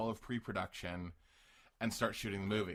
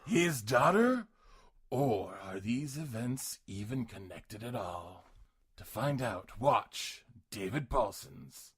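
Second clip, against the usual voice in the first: lightly voiced trailer announcer. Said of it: "trailer announcer voice".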